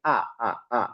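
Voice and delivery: "আ, আ, আ" said as a clean open a with no catch in the throat; clear open a. Shown as a demonstration. Teacher demonstrating a clean open a to students. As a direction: let the breath flow out evenly on "আ" with no throat break. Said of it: "এই আটার ভিতরে আমাদের কোনো গলার কোনো পরিবর্তন হবে না".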